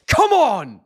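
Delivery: big high yell of joy; triumphant shout. Real, not acted. Streamer roaring as the decision goes his way, triumphant shout. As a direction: roar it as your fighter wins. Livestream reacting to boxing win.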